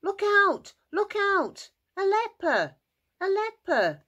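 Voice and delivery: high, loud cry of alarm; panicked yelling. Acted. Townspeople fleeing the man with leprosy, yelling. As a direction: yell a warning as if running away. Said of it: "people would start to run away, yelling".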